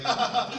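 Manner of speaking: high mocking "ha, ha, ha"; mock laugh. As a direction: imitate laughing at a friend.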